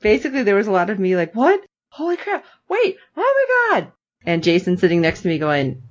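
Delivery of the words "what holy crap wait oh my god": high, broken-up exclamations; mock shock, climbing in pitch; stunned outbursts. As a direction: replay a gobsmacked viewer. Replaying reactions while watching.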